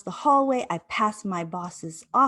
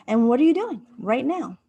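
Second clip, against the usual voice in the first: self-coaching question; 5 semitones higher, 5 dB louder than usual. Retold or imitated. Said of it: "And I said".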